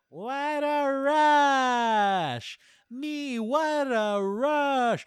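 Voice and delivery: shrill, very high, loud, drawn-out scream into a mic. Describing a video of a man at a microphone; retelling a scream into the mic. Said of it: "he's just screaming in the mic".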